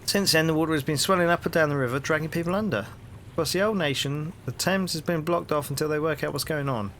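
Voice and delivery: hearty London copper, rising into the question; cheery Cockney policeman greeting a stranger; cockney bobby. Acted. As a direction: play the nosy beat cop on his rounds. Policeman tells of meteorites.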